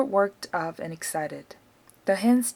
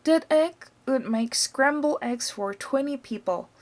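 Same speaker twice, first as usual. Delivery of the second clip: mother's voice; 5 semitones higher than usual. Acted. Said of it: "Missus Cranky said".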